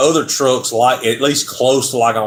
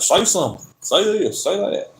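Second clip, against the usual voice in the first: higher-pitched mock demands; imitated pestering viewer; 7 semitones higher than usual. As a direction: mimic viewers badgering for a line. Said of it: "coming here and be like".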